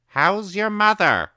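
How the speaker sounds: high, loud call through the door; shout. A narrator's reading. Old woman shouting through her door to the boy. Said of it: "she would shout".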